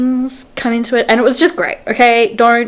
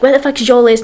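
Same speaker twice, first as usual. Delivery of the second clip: heated demand; 4 semitones higher, 4 dB louder, faster than usual. Retold or imitated. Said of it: "they're, like, really heated".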